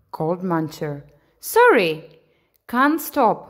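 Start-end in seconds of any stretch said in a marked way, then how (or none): 1.4-3.4 puffing between words; breathless from bouncing; out of breath. Acted. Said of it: "puffed Bouncer".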